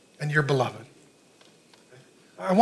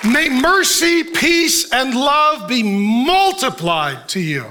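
scripture blessing; 4 semitones higher, much slower than usual. Real, not acted.

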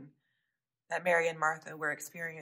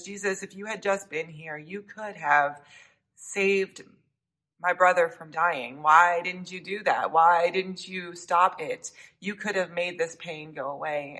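pressing, louder accusing plea; reproachful plea; 5 dB louder than usual. Acted. Martha confronting Jesus over her brother's death, louder reproach. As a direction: let Martha's blame push through. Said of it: "And Martha blames him".

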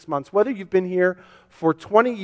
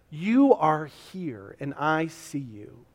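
slow, softer reassurance; tender Jesus; 3 semitones lower, 6 dB quieter, much slower than usual. Acted. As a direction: speak gently to the ones who stayed. Jesus voiced to remaining followers.

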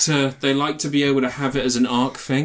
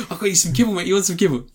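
higher, coaxing pet-owner voice; dog owner; 6 semitones higher, faster than usual. Retold or imitated. Owner offering the actor kibble like a pet, coaxing high.

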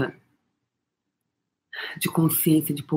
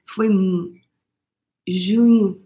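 whisper; slower than usual. Real, not acted. Moved recalling friend's kindness.

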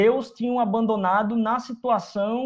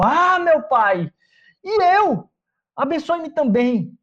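slow, louder anguished plea, rising high on "e eu"; bitter cry; 7 semitones higher, 4 dB louder, slower than usual. Acted. Esaú begging his blind father for a blessing, anguished cry. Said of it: "soltou um forte grito amargurado e suplicou".

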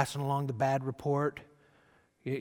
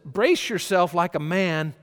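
booming voice of God; 3 semitones higher, 6 dB louder than usual. Acted. Preacher voicing God's challenge.

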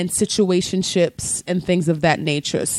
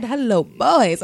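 flirty high voice; 5 semitones higher, slower than usual. Acted. Flirty quoted greeting.

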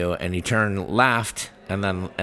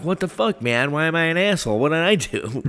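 friend confused; 8 semitones higher than usual. Retold or imitated. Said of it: "he's like".

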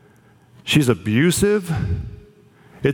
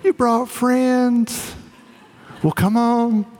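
high, sweet and raspy, welcoming guests in; an elderly aunt thrilled that visitors came; raspy sweet old lady voice pitched high; 9 semitones higher, slower than usual. Retold or imitated. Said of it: "that raspy old lady sweet voice".

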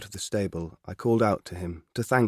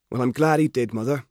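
put-on eager farm boy, pitched up and louder; a keen lad pleading for his father; lightly voiced country boy, earnest; young Albert; 4 semitones higher, 5 dB louder than usual. Albert defends the purchase.

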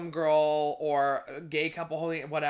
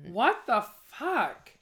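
appalled; 5 semitones higher, much slower than usual. Real, not acted. Outraged at violence news.

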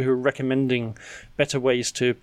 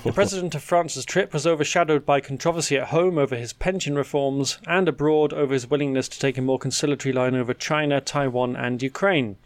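presenter's lilting story lead; measured, wry news script delivery; scripted news read. Acted. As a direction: read it as a prepared news item. Continues scripted news item.

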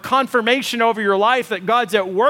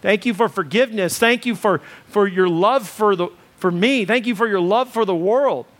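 model prayer. Shown as a demonstration. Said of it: "just say".

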